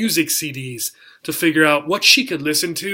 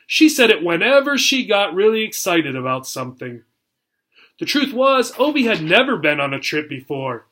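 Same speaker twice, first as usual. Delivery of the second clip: lively storybook read-aloud for a class; reading to children. A narrator's reading. Teacher reading the chapter aloud to her class, lively storytelling. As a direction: tell it like a bedtime chapter for kids.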